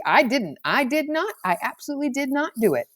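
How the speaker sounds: insist, panicking, that it wasn't you; wild denial. Acted. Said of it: "he said wildly".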